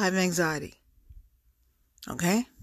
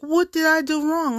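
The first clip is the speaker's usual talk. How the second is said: higher, whiny puzzled question; mock confused guy; 9 semitones higher than usual. Speaker mimicking the rejected man asking what he did, in a high whine. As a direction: mimic his baffled innocence. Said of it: "you're gonna be like".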